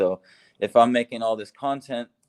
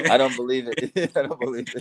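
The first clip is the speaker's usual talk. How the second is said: amused, laughing as the words come out; laughing disbelief; 4 semitones higher, 4 dB louder than usual. Real, not acted. Brushing off the student's compliment on language skill, laughing. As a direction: say it through chuckles.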